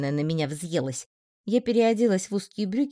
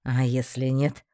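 lower, earnest flirting; ardent male voice; 6 semitones lower, slower than usual. A narrator's reading. Markis insists she looks great, ardent. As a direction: insist heartily as a suitor.

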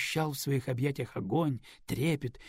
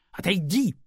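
higher, louder, snapped shout; angry shout; 6 semitones higher, 6 dB louder than usual. Acted. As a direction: push him away with the word. Лиза отталкивает Радислава. (сердитый окрик)

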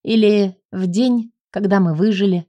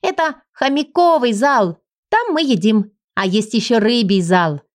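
put-on eager little girl. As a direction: show off the halls like a proud child. Girl explaining halls to heroine.

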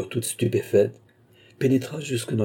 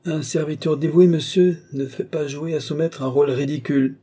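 higher-pitched, indignant retort; stern rebuke; 6 semitones higher than usual. Acted. King reproves his devoted servant, indignant rebuke.

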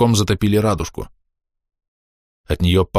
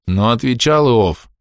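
plain reading voice

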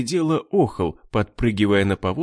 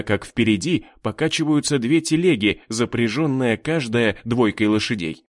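plain reading voice

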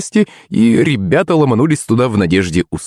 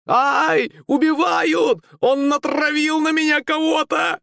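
much higher, strained squeal in panic; panicked yelp; 5 dB quieter, slower than usual. Acted. Shepelev squealing in panic as the fly bites him. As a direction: shriek like he's being stung alive. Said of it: "закричал Шепелев".

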